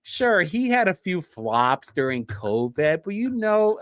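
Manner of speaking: mock-praising the old governor as the greatest ever; sarcastic shilling. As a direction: praise him like a paid shill, tongue in cheek. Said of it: "who do I sound like right now?".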